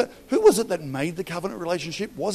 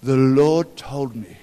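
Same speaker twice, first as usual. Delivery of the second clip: mocking quote; 8 dB louder, slower than usual. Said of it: "I hate that card".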